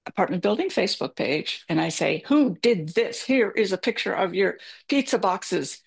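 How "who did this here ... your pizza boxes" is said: retelling her own rant, mildly heated; mock rant. Neighbours on Facebook, mildly mock scolding rant. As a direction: replay the scolding with a touch of heat. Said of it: "I'm just ranting on the Facebook page".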